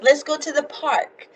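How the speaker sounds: playful Boston accent demo. Shown as a demonstration.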